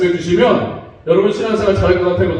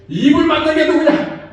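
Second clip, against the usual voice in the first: raised, higher-pitched scolding question; mock an indignant outburst from God; retold divine anger; 8 semitones higher than usual. Preacher voicing God losing patience with Moses, acted anger. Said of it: "막 이렇게 화내지 않습니까".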